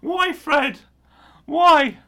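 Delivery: high, pleading why; mock exasperation. Real, not acted. Laughingly pleading with Fred over his photo. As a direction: beg him to explain.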